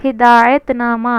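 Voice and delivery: ہدایت نامہ said slowly, with weight on ہدایت; slow emphasis. Shown as a demonstration. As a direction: spell out ہدایت نامہ so it sticks. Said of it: "یاد رکھیے آپ یہ ٹرم کو". (اصطلاح ہدایت نامہ کو آہستہ اور زور دے کر)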